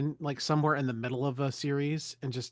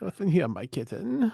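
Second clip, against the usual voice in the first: Discord kitten voice; 4 semitones higher than usual. Acted. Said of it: "Discord kitten voice".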